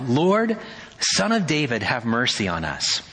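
acted shout. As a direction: call out begging for mercy. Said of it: "look what they shouted".

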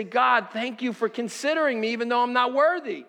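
mildly excited prayer of gratitude; a touch of fervent excitement; excited thanks. Acted. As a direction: lift it into a heartfelt thank-you. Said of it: "with an excitement to say".

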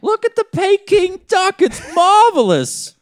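high, slow, exaggerated Chinese accent; a hammy stereotyped Chinese accent; mock Chinese accent. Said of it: "I'm offended by your Chinese accent".

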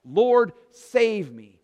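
desperate drawn-out plea to the Lord; cries out. Acted. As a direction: cry out with the last breath. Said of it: "he cries out".

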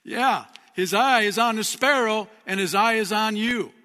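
ringing sermon voice; proclaiming. Real, not acted. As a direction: preach it out with conviction. Preacher proclaims God watches.

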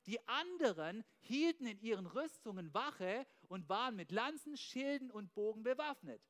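slow, measured Bible reading; slow solemn reading; scripture reading. Acted. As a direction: read the verse out deliberately to the congregation. Reads Bible passage aloud.

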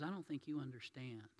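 quietly gracious, kind words to a proud woman; soft, patient reassurance, lifting on the last line; softly voiced gentleman setting her free. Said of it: "looks at her with all the grace he can".

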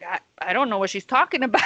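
a quick denial that breaks into laughter; nervous laughing denial. Retold or imitated. Denying to his girlfriend he knows her friend, laughing nervously. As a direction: rush the lie out through a laugh.

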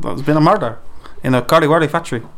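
Scottish accent drifting Irish at the end; Scottish, slipping into Irish. Shown as a demonstration. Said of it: "it's the Irish at the end".

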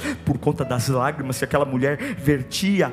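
low, soft, hushed retelling; intimate sermon storytelling. Acted. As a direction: draw them close, quietly.

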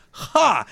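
one high mock "Ha!"; imitated laugh. Simon reacting to McClane's insult, imitated laugh. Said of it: "He starts laughing".

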